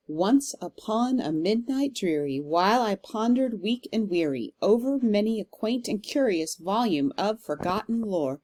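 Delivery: measured, rhythmic recital of Poe; reading poetry aloud. Shown as a demonstration. Teacher reading The Raven to the class, measured and rhythmic. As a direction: let the trochees fall heavy, like a recital. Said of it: "I'll read it first and kind of show you".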